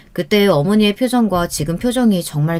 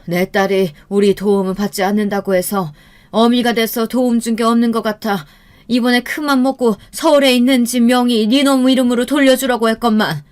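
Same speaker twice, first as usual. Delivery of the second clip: reproachful, pitch climbing as it goes; acted scolding of a son-in-law; indignant mother; 4 semitones higher than usual. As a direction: build from grievance toward anger. Angry mother berates son-in-law.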